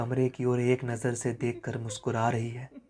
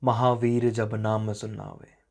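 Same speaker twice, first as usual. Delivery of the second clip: slow, measured recital of a couplet; unhurried devotional couplet; verse recitation; slower than usual. Acted. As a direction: recite the verse slowly, drawing it out.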